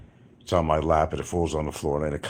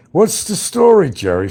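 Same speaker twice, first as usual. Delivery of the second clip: much higher and louder pitchman call; car salesman catchphrase; 10 dB louder than usual. Retold or imitated. Quoting a New York car commercial, loud and high. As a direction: shout the ad slogan. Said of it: "a car salesman on".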